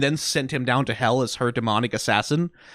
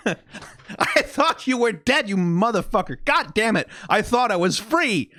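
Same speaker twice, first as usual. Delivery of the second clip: laughing Husk impression; 7 semitones higher, slower than usual. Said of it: "Husk is like".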